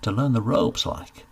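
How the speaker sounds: eager country lad, lightly voiced; keen young northern labourer asking for work; a hint of a rustic youth; young rustic Cedric. Cedric speaking to the steward.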